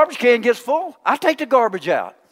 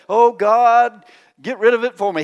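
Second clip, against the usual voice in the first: a begging mock prayer, louder on Oh God; mock pleading prayer; 3 dB louder than usual. Preacher mocks a believer who asks God to do their chores, pleading. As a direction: hand your own job to God with a whiny plea. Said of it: "He didn't say".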